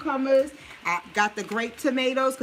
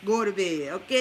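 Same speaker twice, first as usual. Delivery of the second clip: New Orleans accent; 4 semitones lower than usual. Real, not acted. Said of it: "Y'all hear that Nola coming out?".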